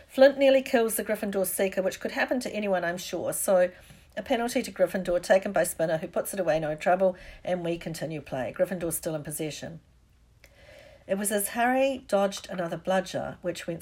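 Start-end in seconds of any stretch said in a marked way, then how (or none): 0.1-9.8 brisk match announcer settling down; grudging, hurried commentator; sardonic commentary. Acted. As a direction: start loud, ease back into routine play-by-play. Lee resumes commentary, sarcastic.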